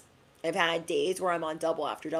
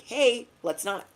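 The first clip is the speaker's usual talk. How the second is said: lightly voiced inner coach; gentle self reminder; 6 semitones higher than usual. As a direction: coax yourself back on track. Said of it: "keep your mind like".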